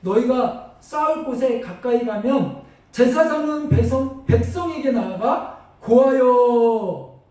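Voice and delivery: slow, solemn scripture read; slow reading of the verse. Acted. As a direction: draw out each verse word. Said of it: "이렇게 이야기합니다".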